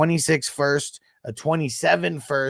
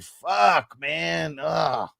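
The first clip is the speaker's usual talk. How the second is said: frustrated curse; 5 semitones higher, much slower than usual. Real, not acted. Reacting to bad fantasy choice.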